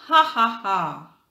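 bewitched laughing. Acted. King laughing under spell.

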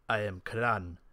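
low-pitched self-introduction; low adventurer voice; Kran's voice. Acted. Kran introduces himself in game.

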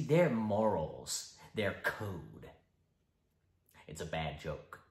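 shifting, mocking, menacing Joker; icy polite interrogator. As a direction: lecture him with menace. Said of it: "the Joker".

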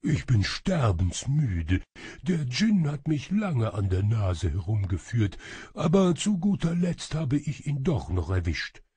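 put-on exhausted shadow voice; weary voice. A narrator's reading. Shadow servant reports catching the djinn, wearily. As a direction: drag it out like one dead tired. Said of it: "mit matter Stimme".

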